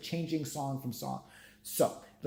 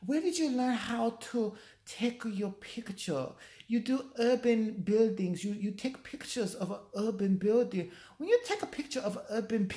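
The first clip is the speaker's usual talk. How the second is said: mock Asian accent; 7 semitones higher than usual. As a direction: ham up the Asian host's broken English. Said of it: "it's this Asian woman".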